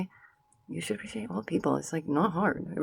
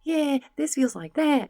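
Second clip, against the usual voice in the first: high, slow mocking voice; mocking the lazy comparison, high and slow; mock dumb take; 10 semitones higher, 3 dB louder, slower than usual. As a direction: drag it out like a clueless commenter. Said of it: "how about we not just go".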